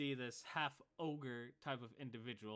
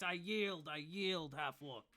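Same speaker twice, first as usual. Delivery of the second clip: yielding; 4 semitones higher, 3 dB louder, slower than usual. Acted. Guard repeats surrender.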